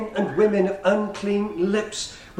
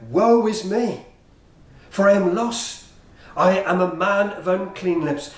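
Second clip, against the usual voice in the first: preacher's mild mock cry of anguish; 2 semitones higher than usual. Preacher quotes Isaiah before the holy God, crying out. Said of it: "he cried out".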